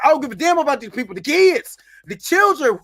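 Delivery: hammed-up yell, rising in pitch on the kids; mock shout. Saul yelling at the Jedi, hammed-up loud outburst.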